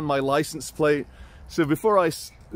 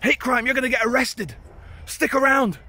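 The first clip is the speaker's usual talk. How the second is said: very high mock accusing voice; hammed-up high Eastern European accent; indignant Eastern European guard; 10 semitones higher than usual. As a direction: imitate an outraged Eastern European guard threatening arrest. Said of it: "He's like".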